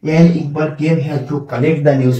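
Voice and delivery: slow sentence with the news, the common mistake; wrong version, slow. Shown as a demonstration. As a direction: show the error students make. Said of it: "আমরা কিন্তু অনেক সময় টানে বলে ফেলাই".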